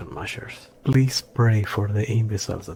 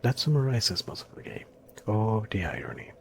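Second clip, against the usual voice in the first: dry sarcasm, pitched up then dropping on the irony; sarcastic. Real, not acted. Game critic mocking a poorly placed boss fight, sarcastic. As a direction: lay on the sarcasm, lightly. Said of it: "Please catch the sarcasm in my voice".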